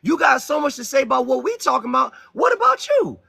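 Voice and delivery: imitating a heated comeback, rising to a shout; mock indignant shout climbing high; mock challenge. Host mimicking the other side's retort, shouted. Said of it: "ask you".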